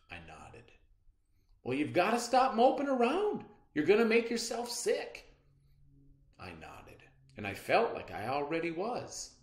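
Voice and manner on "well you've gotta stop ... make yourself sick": mother, firm. A narrator's reading. Mother scolding moping child.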